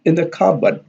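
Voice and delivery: IN stressed in "in the cupboard". Shown as a demonstration. Teacher contrasts in with on, stress on IN. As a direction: lean on the word in, contrasting it. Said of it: "the in here is stressed because it contrasted".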